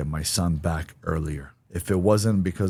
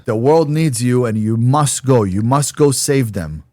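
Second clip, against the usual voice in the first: earnest urging; 6 semitones higher, 6 dB louder than usual. Retold or imitated. Partner's earnest urging retold.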